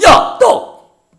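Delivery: sudden high cry about bread; panicked cry. Acted. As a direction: blurt it out in alarm. (당황해서 외치듯)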